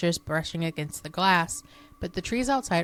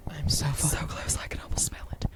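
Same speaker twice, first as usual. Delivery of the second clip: hushed, voiceless whisper; whispered aside; 3 semitones lower, 3 dB quieter than usual. Real, not acted. Co-host cuts into the campfire tale, whispered aside. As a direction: whisper it under the breath.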